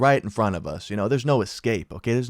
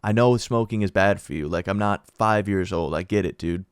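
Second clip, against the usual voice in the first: put-on teenage attitude; 2 semitones lower than usual. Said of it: "Having that arrogant teenager attitude".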